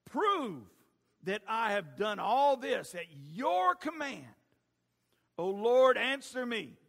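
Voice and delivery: loud, drawn-out pleading; fervent preached plea; impassioned prayer. Acted. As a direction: call on God as the praying prophet. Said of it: "walked up to the altar and prayed".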